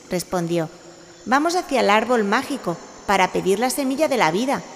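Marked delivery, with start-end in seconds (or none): 1.3-4.6 cheerful, higher and louder; happy kitten telling the plan; joyful. A narrator's reading. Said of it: "con la misma alegría y diversión".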